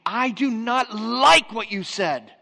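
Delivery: put-on loud, slow, clipped-off complaint from the young woman; imitating an offended young woman's loud, slow protest; angry retort. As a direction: throw the words back at him slowly and loudly. Angry woman confronts the pastor.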